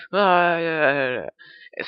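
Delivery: mild mock scream, high then fading; imitated panicked scream. Retelling the man fleeing living rocks, mock scream. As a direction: wail in pretend fright, tailing off.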